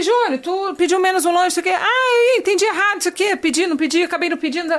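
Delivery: flustered retold exchange. Acted mix-up over a missing order.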